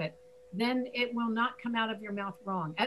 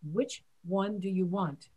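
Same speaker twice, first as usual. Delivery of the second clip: Which one do you want? slow, W sounds stressed; slow careful W. Shown as a demonstration. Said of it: "I'm exaggerating now".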